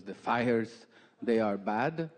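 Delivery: put-on a light Peruvian accent, worried question. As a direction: Peruvian mom asking about the fires. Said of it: "she's from South America, Peru".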